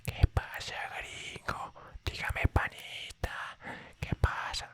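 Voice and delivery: casual Latin American street greeting in Spanish; Latin American slang. Acted. Saludo callejero latinoamericano. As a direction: greet a gringo like a local Latin American buddy. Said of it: "you learn about local accents".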